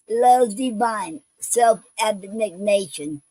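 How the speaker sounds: slow, measured poem recitation; poem reading. Acted. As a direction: read verse line by line, pausing between phrases. Reads a poem aloud.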